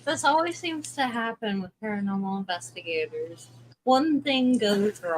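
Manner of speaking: muffled, as if through a hand. Real, not acted. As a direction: voice muffled by a bad mic. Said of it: "like, super muffled".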